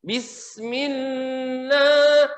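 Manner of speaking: Bismillah with the lam held too long; wrong drawn lam. Shown as a demonstration. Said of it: "tahan tuh, nggak boleh".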